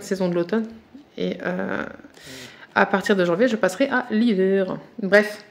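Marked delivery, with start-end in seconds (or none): none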